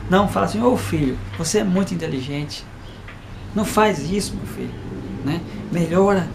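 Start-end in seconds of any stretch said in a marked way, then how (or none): 0.6-4.7 put-on kindly correcting a child, voice settling down; mild fatherly encouragement; gentle parent. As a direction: reassure the child, lightly acted. Kind parent contrasted with scolding one.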